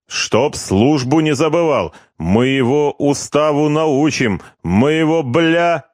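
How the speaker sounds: high, slow swaggering threat; drunken bragging. Acted. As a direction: brag like a drunk old-timer. Drunk corporal boasts.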